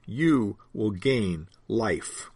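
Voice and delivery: "You will gain life" whispered very slowly; hushed whisper. Acted. Preacher sharing a precious promise with the congregation, slow whisper.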